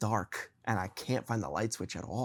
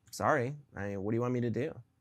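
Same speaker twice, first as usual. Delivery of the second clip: flat, emotionless delivery. Retelling a dream where she answers pleas coldly: imitating Emma with no emotion. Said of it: "There's no emotion there".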